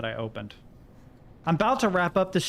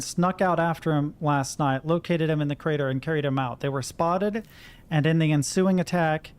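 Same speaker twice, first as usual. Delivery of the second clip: reading a report. Acted. Reads a wartime report aloud.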